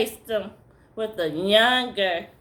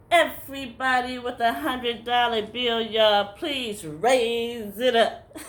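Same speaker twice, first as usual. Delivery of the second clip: a hint of a pulpit preacher asking for money; preacher's call. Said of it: "all of a sudden he'll go".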